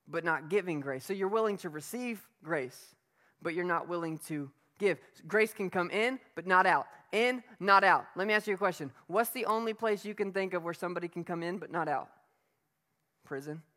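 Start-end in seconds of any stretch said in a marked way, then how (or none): 5.3-8.0 loud, punchy contrast, stress on not; preaching emphasis. Acted. Pastor punching the point to the congregation, loud and emphatic. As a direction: drive home in and not out.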